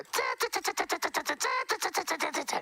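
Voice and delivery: very high rapid ta-ta-ta chattering; squirrel chatter. Retold or imitated. An angry bush squirrel scolding, in very high staccato chatter. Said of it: "they flick their tails and go".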